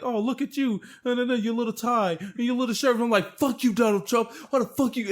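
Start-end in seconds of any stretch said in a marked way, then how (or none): 0.0-2.9 higher-pitched teasing, poking fun; retold mockery in a raised pitch; mocking taunt. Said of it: "he was poking fun at". 3.4-5.1 half-strength indignant yell; retold yelling. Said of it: "I was yelling at Donald Trump".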